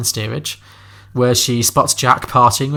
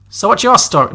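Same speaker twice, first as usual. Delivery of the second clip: Kathy Bates southern impression; 7 semitones higher, 5 dB louder than usual. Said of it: "she's kind of southern".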